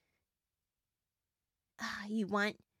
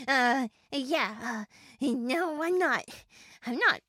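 winded, loud flustered denial; breathless from flying up; out of breath; 2 semitones higher, 6 dB louder than usual. Acted. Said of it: "I'm just a little winded".

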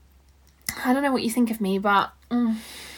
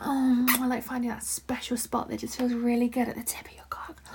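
whispering. Acted. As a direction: breathe the words close to the mic. Whispered roleplay.

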